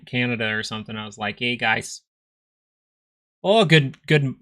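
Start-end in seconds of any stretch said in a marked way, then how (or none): 1.4-2.0 put-on Scottish accent. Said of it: "now I'm sounding Scottish or something". 3.4-4.3 put-on Scottish accent. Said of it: "now I'm sounding Scottish or something".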